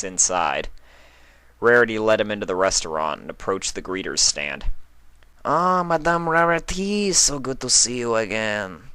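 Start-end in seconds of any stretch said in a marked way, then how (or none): 5.4-8.9 a head waiter greeting a regular; Pierre the waiter. A narrator's reading.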